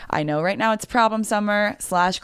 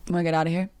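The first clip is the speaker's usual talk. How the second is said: mock smooth pickup line; much faster than usual. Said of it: "Here's my impression".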